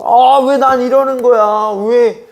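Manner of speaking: put-on "why me" wail; mock whining lament. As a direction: act out someone bemoaning their life, stretched and high. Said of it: "그것 때문에 울고 그것 때문에 힘들어가지고".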